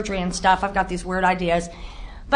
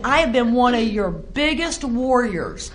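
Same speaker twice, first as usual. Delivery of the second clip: slow, deliberate mock fury; a hint of anger at God, slowly; angry at God; slower than usual. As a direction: confront God, slow and bitter. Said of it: "how angry I was at God".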